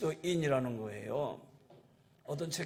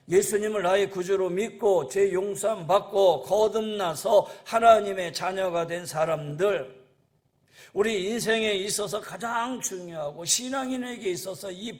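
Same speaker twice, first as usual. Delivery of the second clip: raised, insistent pulpit voice; preaching; 3 semitones higher, 6 dB louder than usual. Real, not acted. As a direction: proclaim it firmly to the congregation. Preaches at full force.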